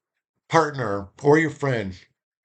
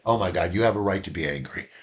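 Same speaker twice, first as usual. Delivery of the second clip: understanding; 4 semitones lower, faster than usual. Shown as a demonstration. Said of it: "I said".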